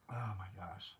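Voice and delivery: whispered, choked-up oh my gosh; emotional whisper. Real, not acted. Whispering to herself, moved by a viewer's offer. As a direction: barely breathe it, overcome. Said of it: "about to get freaking emotional".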